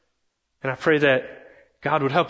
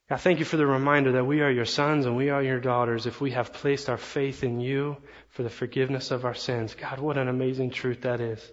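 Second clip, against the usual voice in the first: prayer; 2 semitones lower than usual. Acted. Pastor praying for the congregation after the sermon, hushed prayer.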